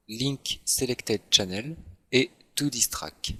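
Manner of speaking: slow, French-accented English menu names; accent anglais approximatif. Real, not acted. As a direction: read out English terms slowly with a French accent. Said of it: "mon accent anglais est merveilleux". (anglais lent avec accent français)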